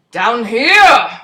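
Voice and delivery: slow, lightly done giant voice; giant's voice. Acted. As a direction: speak like a little giant, slowly. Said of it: "a giant's voice 'cause he's so little".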